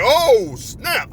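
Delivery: high, drawn-out startled exclamation; shocked reaction. Retold or imitated. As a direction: act out being taken aback. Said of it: "it shocked me how big he".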